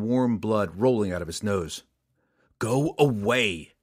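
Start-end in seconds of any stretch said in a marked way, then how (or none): 2.6-3.7 sincere. Acted. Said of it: "Drizzt said sincerely".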